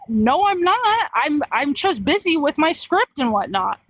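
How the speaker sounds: acted protesting denial. Busy YouTuber answering a hostile fan, mock protest. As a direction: play the wrongly accused, pleading busy.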